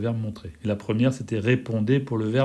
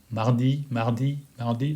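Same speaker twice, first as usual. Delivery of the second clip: repeating the word. Shown as a demonstration. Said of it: "répète le mot mardi".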